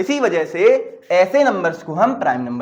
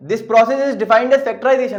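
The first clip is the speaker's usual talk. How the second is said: slow definition; 2 semitones higher, 3 dB louder, much slower than usual. Shown as a demonstration. Teacher states a definition.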